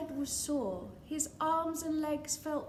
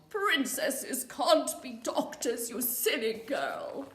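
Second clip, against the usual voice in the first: scornful king; 5 dB louder than usual. Acted. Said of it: "The king replied".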